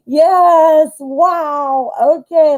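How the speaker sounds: laugh, then high, loud delight; goofy, thrilled outburst; goofy excitement. Real, not acted. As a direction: burst into giddy high-pitched excitement. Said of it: "why I'm getting all goofy".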